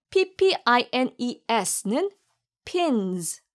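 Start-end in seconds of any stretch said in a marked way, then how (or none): 2.6-3.4 pins ending in a light z sound; final s as z. Shown as a demonstration. Teacher shows students the z ending of pins. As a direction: let pins close on a soft z. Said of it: "끝에 있는 S는 Z의 Z로".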